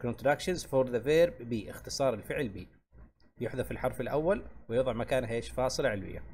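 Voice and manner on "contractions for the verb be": very slow, word by word; slow title read. Shown as a demonstration. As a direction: announce the topic slowly. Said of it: "نسميها الكونتراكشنز". (قراءة العنوان ببطء)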